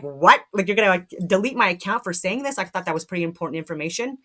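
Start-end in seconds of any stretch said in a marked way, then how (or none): 0.0-2.6 louder, mock outraged question; indignant disbelief. Reacting to the deleted account, indignant. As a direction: protest in disbelief. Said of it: "And I'm like".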